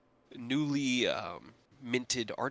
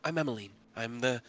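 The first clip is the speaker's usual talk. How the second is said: reassuring. Acted. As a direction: put her at ease gently. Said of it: "holds up a hand and goes".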